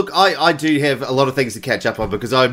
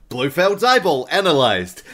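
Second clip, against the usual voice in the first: computer voice; 2 semitones higher than usual. Retold or imitated. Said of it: "the computer says out loud".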